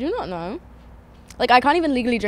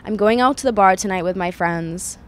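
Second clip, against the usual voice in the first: careful attempt at an American accent; American accent, slightly Canadian; 3 semitones lower than usual. Shown as a demonstration. Guest tries full sentence, American accent. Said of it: "can you do your American accent".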